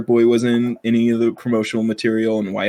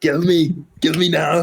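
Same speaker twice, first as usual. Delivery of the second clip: higher, hammed-up demand; put-on plea, less squeaky; mock goading; 5 semitones higher than usual. Host repeating the dare, mock goading.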